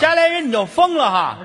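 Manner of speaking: scolding grandma. Acted. Grandma scolding child voiced.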